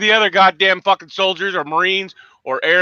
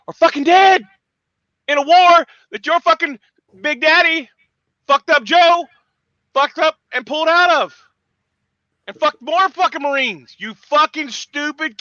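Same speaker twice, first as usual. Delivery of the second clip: furious shout; 6 semitones higher than usual. Real, not acted. Veteran ranting about fallen brothers, furious shout. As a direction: yell it in grief and rage.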